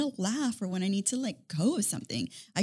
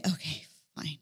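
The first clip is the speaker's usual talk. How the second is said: retold giving in; 6 semitones lower, 7 dB quieter than usual.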